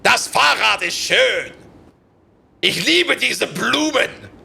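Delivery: slow, loud mock-angry German. Shown as a demonstration. Mocking German to show it sounds angry, slow and loud. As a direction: bark the German out, slow and cross. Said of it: "just be a little bit angry".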